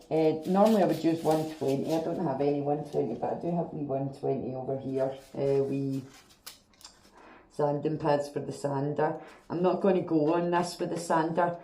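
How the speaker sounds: muffled voice behind a respirator; muffled through respirator. Real, not acted. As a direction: talk through a respirator mask. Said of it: "obviously I'll be a wee bit muffled".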